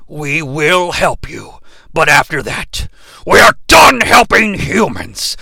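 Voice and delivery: slow, booming robot leader; Optimus Prime voice. Acted. Riffing on the movie, robot leader declares himself done helping humans. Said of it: "Prime's like".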